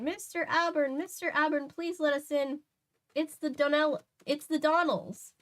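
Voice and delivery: high, pleading comic Irish woman; Irish accent. Acted. Woman at the door begging Nancy to let them in, Irish accent. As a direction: call through the door in a stage Irish lilt. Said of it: "The Donnells are probably Irish, right?".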